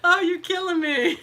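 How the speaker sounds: high, helpless laughter; laughing. Real, not acted. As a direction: laugh through it. Laughing at viewer comments.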